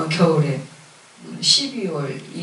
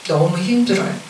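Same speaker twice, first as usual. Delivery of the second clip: weary prayer; 4 dB quieter than usual. Retold or imitated. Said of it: "앉아서 그랬어요".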